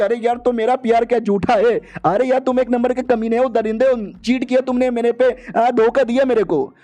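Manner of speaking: a touch of hurt fury, hammed-up; jealous scolding. Witch accusing the hero of cheating on her, mock angry.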